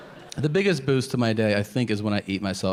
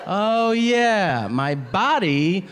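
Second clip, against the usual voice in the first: high, slow, laughing self-mockery; mock-outraged at your own body, higher and slow; breathless self-scolding; 8 semitones higher, much slower than usual. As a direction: scold yourself between gasps for air. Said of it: "You're like".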